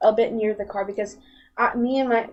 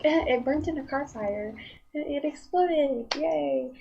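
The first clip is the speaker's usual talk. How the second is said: deadpan sarcasm; 3 semitones higher, 5 dB quieter than usual. Pretend. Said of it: "if people are like".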